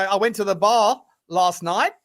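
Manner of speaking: "night" lifted at the end like a question; rising Australian inflection. Shown as a demonstration. Host showing how Australians end sentences, upward inflection on "night". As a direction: tell it as if asking about "night". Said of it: "they put a little inflection at the end".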